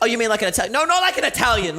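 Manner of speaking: high, quizzical outsider; a touch of a confused tourist; mildly mocking a foreigner's question; mock puzzled foreigner. Foreigner and reply quoted.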